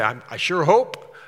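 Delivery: loud, pleading, uncertain hope; mock the half-hearted wishful believer; rising, hopeful plea; wishful hoping. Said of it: "He didn't say".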